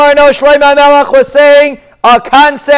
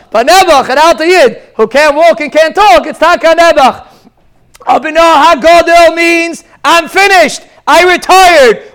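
higher-pitched, insistent sermon delivery; emphatic preaching; 5 semitones higher than usual. Real, not acted. Rabbi teaching his listeners about never retiring, emphatic preaching. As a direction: drive the point home, phrase by phrase.

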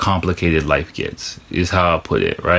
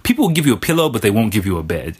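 fast, tossed-off line; quick first telling; faster than usual. Shown as a demonstration. Saying the pillow line quickly before repeating it. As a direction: rattle it off quickly the first time. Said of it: "think about it".

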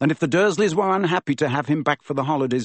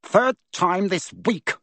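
high, slow, booming complaint; roaring; 7 semitones higher, slower than usual. A narrator's reading. Uncle roaring at nephew across the table, high and slow. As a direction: Uncle Vernon roars at Harry over breakfast. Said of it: "he roared across the table".

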